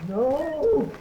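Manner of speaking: high, loud panicked cry of no; terrified scream. Acted. Frightened patient screaming no at the nurses. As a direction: scream it out in sheer terror.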